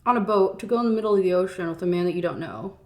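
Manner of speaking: high, pushy disbelief at her; incredulous rant. Real, not acted. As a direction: scold the heroine like a friend. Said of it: "And I'm just like".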